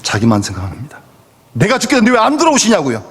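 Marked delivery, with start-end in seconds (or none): 1.5-3.0 fast, reproachful whine; resentful complaint. Retold or imitated. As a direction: blurt out a selfish grievance. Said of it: "그렇게 원망하는 겁니다". (빠르게 원망하는 말투)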